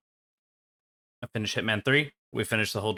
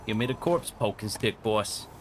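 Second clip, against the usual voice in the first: goon voice. Pretend. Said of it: "That's my goon voice".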